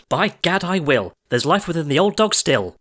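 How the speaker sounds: high, plucky mother's cry; determined cry. A narrator's reading. Mother accepts Jack's dare to climb, high spirited cry. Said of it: "The mother cried".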